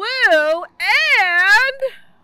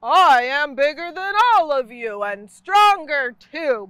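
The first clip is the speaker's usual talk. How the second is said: boastful; 4 dB louder than usual. A narrator's reading. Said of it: "boasted the mummy".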